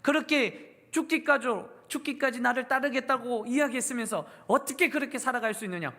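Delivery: mock-scold Peter as a betrayed master; sermon's imagined angry Jesus confronting Peter; pretend angry rebuke. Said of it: "화내셨습니까?".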